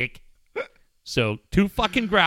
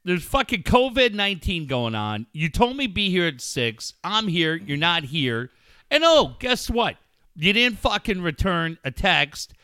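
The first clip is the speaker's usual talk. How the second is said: an irritated, profane chewing-out of a late friend; mock angry rant. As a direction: scold him like he owes you, half joking. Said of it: "It would have been this".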